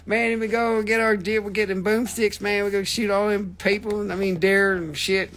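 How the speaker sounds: lightly voiced Texan good-old-boy rambling; Boomhauer impression. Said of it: "scientific boomhauer".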